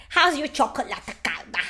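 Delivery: "How's your chocolate calda?" in a put-on Italian accent. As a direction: mimic the line with an Italian accent. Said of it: "do you guys like my accent, my Italian accent".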